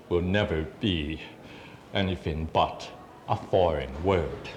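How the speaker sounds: spaced-out spoken-word lines; measured poem ending, falling away; poetry recital. Acted. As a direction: perform it as verse, pausing between phrases. Recites own poem to audience.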